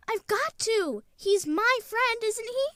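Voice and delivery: put-on a boy near tears begging to come; tearful pleading. Boy begging his mother through tears to come along.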